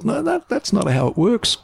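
high, slow retold objection; drawn-out incredulous correction; exasperated protest. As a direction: spell it out in mock exasperation. Retold argument with reluctant star.

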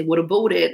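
lightly mocked Canadian vowel in "about"; Canadian-style about. Shown as a demonstration. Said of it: "I don't, you know, say".

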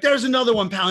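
imitating a furious principal; mock angry principal. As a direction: snap it like an escalating principal. Principal escalating detention threat.

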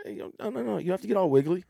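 high, fast teasing reassurance; lightly hammed-up, coaxing a kid; dad mimicking his own gentle correction, pitched high; mock soothing dad. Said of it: "I was just like".

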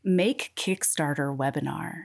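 low, sultry audiobook read; sexy narrator voice. Shown as a demonstration. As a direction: read the list like a seductive audiobook. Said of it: "Do the voice with your grocery list".

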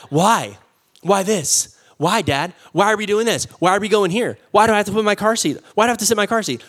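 lightly voiced whining child; a hint of a nagging kid; whiny four-year-old. Pastor imitating his four-year-old asking why, lightly whiny. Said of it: "my four-year-old".

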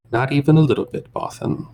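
a high, whiny bounty hunter; whining alien voice. Acted. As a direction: sneer it in a high whine. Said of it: "a high kind of whining voice".

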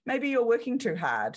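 gentle universe voice. Acted. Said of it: "And it says".

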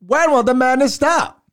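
high announcer call from the 1920s; old-timey radio voice. Shown as a demonstration. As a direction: belt it like an old radio host. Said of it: "Old-timey radio voice".

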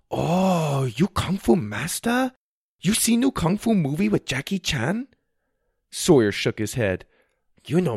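put-on light Chinese accent, delighted; tour guide Wang. A narrator's reading.

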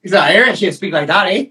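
rough attempt at an Irish accent. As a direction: try a not-too-good Irish lilt. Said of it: "my Irish isn't, isn't too good".

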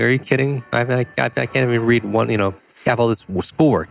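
mock alarm, voice jumping up; incredulous. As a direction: replay the shock of being asked to read a book a week. Retold reaction to reading a book a week.

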